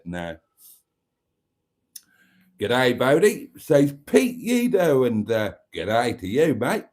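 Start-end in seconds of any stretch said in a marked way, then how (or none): 2.6-6.8 badly faked Irish accent; terrible Irish accent. Host greeting Pete back, terrible Irish accent. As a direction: greet a listener in a hammy, bad Irish accent. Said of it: "that terrible Irish accent".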